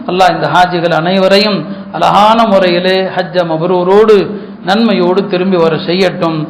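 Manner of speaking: low, measured supplication winding down; closing prayer. Real, not acted.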